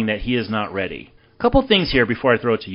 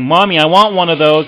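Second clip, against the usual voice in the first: put-on louder, higher begging child; pleading kid; 5 semitones higher, 8 dB louder than usual. Kid begging mom for a toy, loud pleading. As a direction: beg for a toy like an excited kid. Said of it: "a kid's gonna leave saying".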